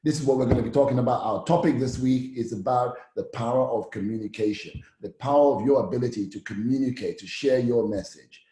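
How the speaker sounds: clear, upbeat host welcome; friendly normal presenter voice. Shown as a demonstration. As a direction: greet them like a warm TV host. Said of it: "It's my normal sounding voice".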